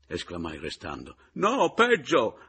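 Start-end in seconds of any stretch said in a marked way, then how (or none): 1.3-2.4 slow, much louder and higher; alarmed outburst; emphatic cry. A narrator's reading. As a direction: hit peggio hard. Announcing bad news loudly.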